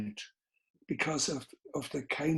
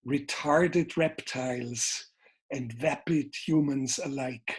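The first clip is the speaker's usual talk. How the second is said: quoting his film narration. Retold or imitated. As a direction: intone it like the closing line of a film. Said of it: "and now I say it".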